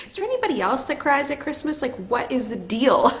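teary. Real, not acted. Vlogger asking viewers, still teary. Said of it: "I get very emotional".

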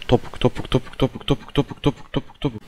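rhythmic hushed whisper; tense whisper. Real, not acted. Player tiptoeing through the maze, whispered chant.

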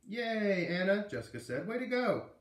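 high, loud cheer; a high, loud yay for the winner. A narrator's reading. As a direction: cheer a friend's win with bright delight. Jessica cheers Anna.

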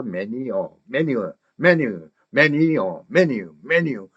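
"매니어" linked as one piece; drilled chunk. Shown as a demonstration. Teacher drills many plus a, "매니어" run together. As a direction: repeat "매니어" as a joined chunk. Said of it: "이렇게 조각 내기를".

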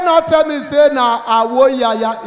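shouting at the agent as the house recedes; alarmed shout. Retold or imitated. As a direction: yell it in mounting alarm. Growing alarm at distance.

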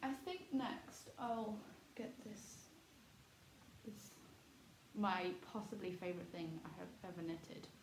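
words muffled through a wool scarf. Real, not acted. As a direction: talk with your mouth in a scarf. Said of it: "I'm talking into the scarf".

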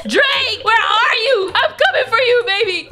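high, lovestruck fan's call; excited calling out. Acted. Fan arriving at the party calls for a rapper, excited calling out. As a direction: call out eagerly, pitched high.

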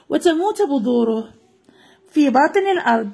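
expressive storybook reading for pupils; lively children's story voice. Acted. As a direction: read it aloud like a class story. Reads the story aloud.

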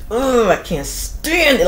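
slow, dragged-out mock resentment; mock grudging grumble. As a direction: grumble it like a jealous hater. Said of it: "grunts through their teeth".

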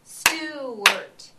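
"Stewart" loud, split into two clapped beats; clapped syllables. Shown as a demonstration. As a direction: clap out each syllable of "Stewart", loud and even. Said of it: "I'm gonna do it first".

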